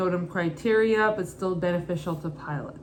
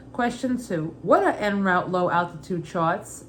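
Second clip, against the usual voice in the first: put-on Brooklyn accent. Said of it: "Every question I'll read in my mother's Brooklyn accent".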